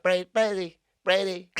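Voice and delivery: Boston attempt turning little Italian; botched Boston accent. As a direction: stumble at Boston and land on Italian. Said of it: "now you sound like a little Italian".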